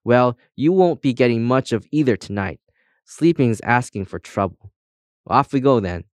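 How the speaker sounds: lightly voiced bossy guide; brisk no-nonsense character voice, a little lifted; brisk compass guide.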